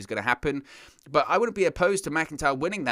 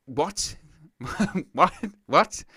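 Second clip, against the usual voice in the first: baffled what; 5 semitones higher, much slower than usual. Real, not acted. Laughing disbelief at logic.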